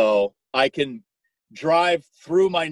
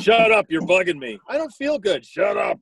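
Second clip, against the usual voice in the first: yelling across the room; 9 semitones higher than usual. Pretend. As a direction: snap back like an annoyed kid. Acted sibling quarrel, yelling back.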